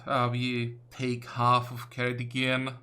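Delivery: normal talking voice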